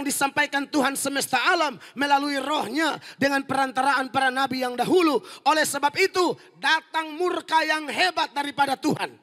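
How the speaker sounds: loud, forceful scripture reading; thundering Bible reading from the pulpit; preaching scripture. Acted. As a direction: proclaim the verse with full weight. Reads scripture at full force.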